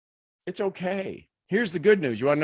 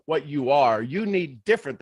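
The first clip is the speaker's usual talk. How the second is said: ordinary talk, nothing marked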